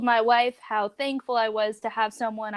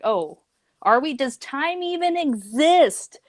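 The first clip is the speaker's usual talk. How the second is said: mock bewildered; 8 semitones higher, 4 dB louder than usual. Mock-confused retort to friend.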